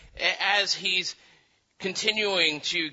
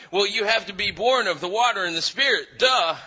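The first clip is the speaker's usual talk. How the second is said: fast, raised, know-it-all lecture ending in a mocking duh; mock Jesus lecturing; 4 semitones higher, 4 dB louder, faster than usual. Preacher mimics Jesus explaining rebirth, sarcastic know-it-all tone. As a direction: rattle it off like it's obvious, then duh. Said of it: "Jesus going on about".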